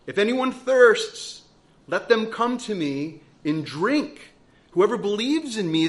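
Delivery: loud, slow urgent cry from the pulpit. Acted. Preacher voicing Jesus calling to the thirsty, loud and urgent. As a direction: call it out like a desperate invitation. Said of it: "he's crying out".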